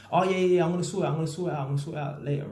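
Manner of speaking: high, breezy brush-off; mocking excuse. Mimicking the debtor brushing him off, high and dismissive. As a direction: mimic the debtor's lazy promises. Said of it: "not even talking about the client".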